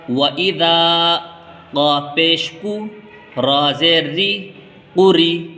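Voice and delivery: slow, deliberate chant, syllable by syllable; Quranic spelling recitation. Shown as a demonstration. Teacher reading it through for learners, slow chanted spelling. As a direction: recite with long vowels held on a level note. Reads the whole word through.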